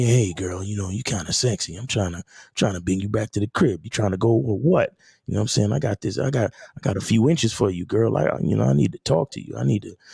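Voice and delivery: hushed, flirty, half-whispered seductive stage whisper. Acting out a confident man half-whispering to a woman: half-whispering seductively. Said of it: "he starts whispering in her".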